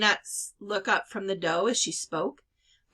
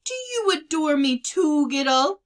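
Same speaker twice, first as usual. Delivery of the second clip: higher, louder playful uncle; fond teasing uncle; 6 semitones higher, 5 dB louder than usual. A narrator's reading. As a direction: tease the sister fondly. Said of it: "laughing fondly".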